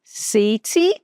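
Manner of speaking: "city" with a strong pronounced T; clear T city. Shown as a demonstration. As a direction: say "city" with a firm T. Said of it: "O T ali mais forte".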